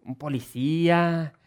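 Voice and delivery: put-on slow, childlike voice for a nine-year-old's boast; a light child voice; imitating himself as a child. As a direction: say it like a little boy dreaming of being a policeman. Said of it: "yo decía".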